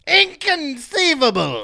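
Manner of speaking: Vizzini impression. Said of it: "The Princess Bride".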